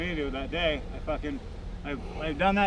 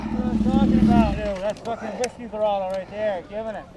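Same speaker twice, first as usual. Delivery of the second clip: excited cheer; 4 semitones higher than usual. Real, not acted. Cheering a big throttle wheelie.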